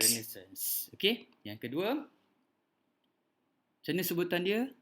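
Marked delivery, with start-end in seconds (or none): 0.0-0.6 Renaissance repeated after the recording; teacher's repeat. Shown as a demonstration. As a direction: echo Renaissance for the class. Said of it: "Okey, sekali lagi".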